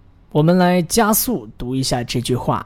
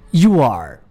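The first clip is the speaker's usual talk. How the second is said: slow model reading; 3 dB louder than usual. Shown as a demonstration. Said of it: "在我停顿的时候，你就要跟我来读这句话".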